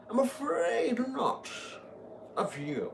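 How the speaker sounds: high, slow, strained delivery; a clumsy hammed-up hero voice; botched heroic line. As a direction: overdo the line badly. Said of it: "I said that so horribly".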